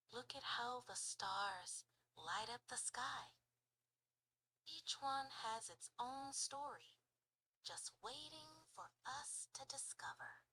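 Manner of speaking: soft, hushed whisper fading away. Shown as a demonstration. Lying outside watching the stars together, soft whisper. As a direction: whisper gently under the night sky. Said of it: "What would you say and whisper?".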